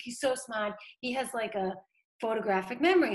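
light imitation of a Boston accent; a hint of a proud Boston mother. Proud mother praising her son, in a light Boston accent. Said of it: "she has the strongest Boston accent".

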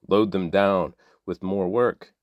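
measured, even reading of a Bible passage; scripture reading. A narrator's reading. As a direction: read the text to listeners steadily. Scripture reading before plain sign-off.

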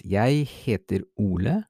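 ordinary talk, nothing marked

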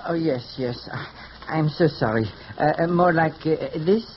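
put-on apologetic hairdresser with a French accent; phony French accent. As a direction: fuss politely in a fake French accent. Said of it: "without the phony French accent".

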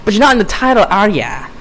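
put-on botched New York accent, high and needling; Harley Quinn. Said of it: "That was a shitty Harley Quinn impression".

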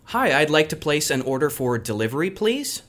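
clear, careful phone-order diction; customer service voice. Shown as a demonstration. Ordering pizza by phone to show friends his phone voice, careful and clear. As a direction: enunciate every word like a polite caller. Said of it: "tell you exactly how I do it".

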